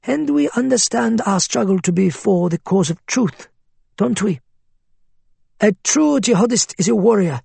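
persuasive cleric voice. Acted. Faiz preaching to recruit.

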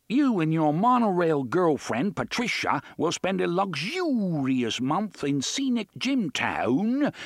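blaring TV host bellow; Robin Leach. A narrator's reading. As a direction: boom it like a showy host. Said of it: "the blaring Robin Leach bellow".

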